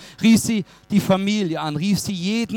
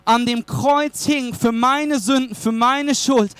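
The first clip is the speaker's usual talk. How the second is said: building, higher-pitched gospel proclamation; impassioned preaching; 6 semitones higher than usual. Real, not acted. Preacher likening Christ's death to the bouquets, impassioned. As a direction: press the message home with rising conviction.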